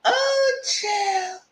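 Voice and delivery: high, breaking with laughter; laughing sigh. Real, not acted. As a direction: wheeze it out still laughing. After laughing at joke.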